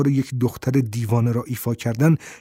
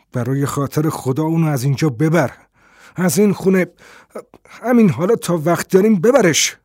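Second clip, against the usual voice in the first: pleading, rising louder and higher; a desperate plea that climbs in pitch and volume; urgent plea; 4 semitones higher, 4 dB louder than usual. Acted. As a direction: beg him to get her out now. Collinson begs to take her away.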